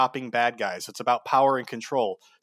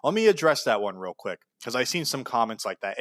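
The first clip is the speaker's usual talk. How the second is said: normal talking voice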